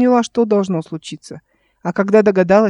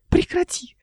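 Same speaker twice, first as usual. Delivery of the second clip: high, strained hiss; hissed command; 10 semitones higher, 3 dB quieter than usual. A narrator's reading. Uncle snapping at his niece, hissed. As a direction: hiss the order at her.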